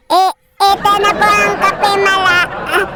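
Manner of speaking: gasping between words, winded from blowing; out of breath. Acted. Winded employee handing the boss cooled coffee, out of breath. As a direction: stammer it out short of breath. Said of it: "kakapusin ng hininga".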